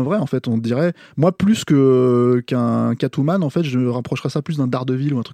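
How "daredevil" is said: Daredevil said the French way; French accent. Shown as a demonstration. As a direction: pronounce Daredevil with French sounds, syllable by syllable. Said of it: "avec mon accent français".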